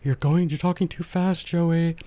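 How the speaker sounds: mock complaint. Listener griping to Joey about his speed, mock complaint. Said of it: "don't get on me that".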